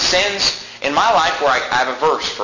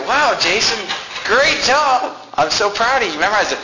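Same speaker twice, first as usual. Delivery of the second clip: proud mom; 7 semitones higher than usual. Retold or imitated. Mom praising her son on the phone, high and excited. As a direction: imitate a thrilled mother gushing. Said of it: "She's like".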